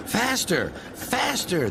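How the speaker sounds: high, gleeful shouts of the trucks; mischievous yell. A narrator's reading. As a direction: egg him on with a cheeky yell. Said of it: "they yelled".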